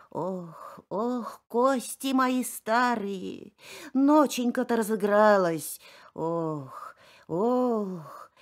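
lightly voiced groaning old woman; a hint of an old pine groaning in the storm; creaky old pine.

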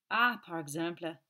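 scandalised French exclamation; indignant cry. Acted. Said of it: "cried the magistrate indignantly".

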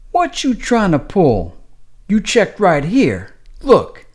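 high, slow, accusing nurse voice. Acted. Nurse accusing Donald of a scam, high and slow. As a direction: catch him in a lie.

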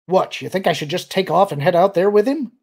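loud, incredulous, rising question; demanding. A narrator's reading. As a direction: challenge him indignantly. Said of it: "Han demanded".

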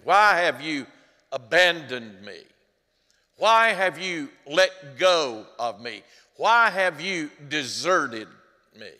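loud, slowed, pleading cry; anguished cry. Acted. Preacher voicing Jesus' abandoned cry, loud pleading. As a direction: hurl each why upward in anguish.

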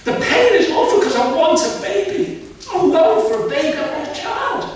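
a distressed woman, close to crying; upset pleading. Retold or imitated. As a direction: plead through tears, voice climbing. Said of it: "that's why I'm crying like this".

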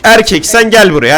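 calling out. Real, not acted. Calling animatronic over.

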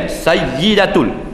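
Sayyidatul said very slowly, each syllable spaced; Sayyidatul, drawn-out teaching demo; slow model word. Shown as a demonstration. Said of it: "jauh Rumi".

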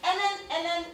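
can't believe her luck; giddy squeal. Real, not acted. Giddy disbelief.

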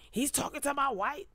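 mock wounded husband; whiny jealous JoJo. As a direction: whimper it like a sulking husband.

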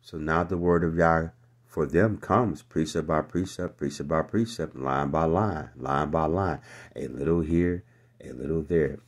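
loud, driving preacher cadence; full-voiced sermon recital; preaching. Real, not acted. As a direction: hammer each phrase to the congregation. Preaching the verse at full force.

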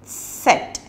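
letter Z said tset; whispered model of Z; German Z. Shown as a demonstration. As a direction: Set with a sharp ts. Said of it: "pronounced as set in German".

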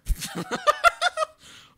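real high laugh; loud laugh. Real, not acted. Big play laugh.

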